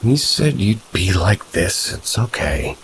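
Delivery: teary. Acted. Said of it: "With tears in her eyes".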